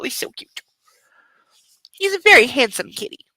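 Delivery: whispering. Real, not acted. Cooing over her cat.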